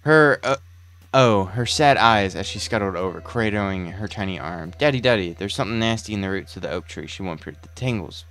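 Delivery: brooding, theatrical storyteller voice; dramatic monologue narration. Acted. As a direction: narrate like a horror documentary.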